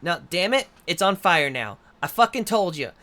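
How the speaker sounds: furious shout at a clumsy partner; angry yell. Acted. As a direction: chew someone out over a burnt meal. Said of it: "the same voice go".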